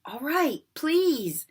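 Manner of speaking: high teasing sing-song; sing-song Peeves. A narrator's reading. Peeves teasing the students in a sing-song voice. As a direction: taunt them in a lilting poltergeist voice. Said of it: "in his annoying sing-song voice".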